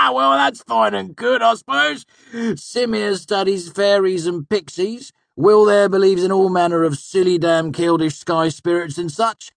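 high, loud mocking laughter carried into the words; bursting out laughing. A narrator's reading. Manet ridicules friends' interests, bursting with laughter. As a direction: laugh uproariously, then scoff. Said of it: "then burst out laughing".

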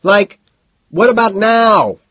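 very high, loud demand; high-pitched screaming question. A narrator's reading. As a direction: yell it impatiently over music. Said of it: "Price screams".

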